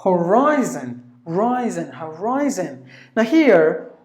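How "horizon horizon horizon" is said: teacher's careful model of "horizon"; stressed second syllable. Shown as a demonstration. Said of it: "including the I".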